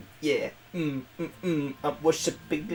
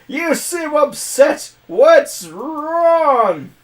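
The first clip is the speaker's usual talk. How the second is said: concerned hero; 11 semitones higher, 9 dB louder, much slower than usual. Acted. Player character speaks to priestess.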